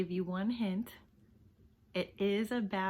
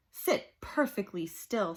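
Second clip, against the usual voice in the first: stern teacher. Acted. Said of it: "said Miss Swamp".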